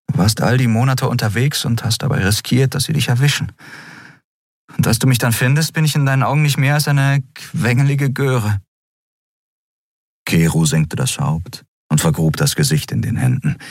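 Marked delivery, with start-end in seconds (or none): 0.1-8.6 put-on higher, earnest young heroine; Endriel, young woman's voice. A narrator's reading. Endriel to Keru, remorseful and higher. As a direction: let her voice rise with remorse.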